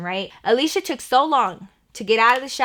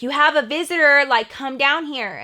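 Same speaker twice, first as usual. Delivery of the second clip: calling up; 6 semitones higher, 5 dB louder than usual. Retold or imitated. Grandma calls upstairs to Alicia.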